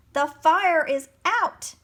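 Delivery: slow, high, loud proclamation; shouting. A narrator's reading. Mole announces the fire is out, shouting. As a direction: proclaim the victory to everyone. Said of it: "the mole shouted".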